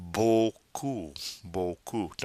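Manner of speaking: "beaucoup" ending on an open oo; slow French "beaucoup" with no final P; silent P. Shown as a demonstration. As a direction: say "beaucoup" as boh-koo. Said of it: "Notice the P is silent".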